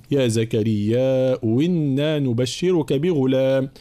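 slow chanted recitation; slow melodic Quranic chant. Shown as a demonstration. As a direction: recite slowly in tajwid style. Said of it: "إذا ابتدأنا بها".

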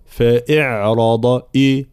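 slow فإعراض with hamza slid to إي; overdone thinning. Shown as a demonstration. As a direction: exaggerate the thin hamza into an i in فإعراض. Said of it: "ولا نبالغ طبعًا في ترقيق الهمزة". («فإعراض» بمبالغة في ترقيق الهمزة)

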